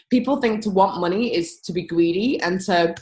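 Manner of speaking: words catching in the throat; choking. Real, not acted. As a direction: talk through a tickle in the throat. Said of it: "sorry, I'm choking".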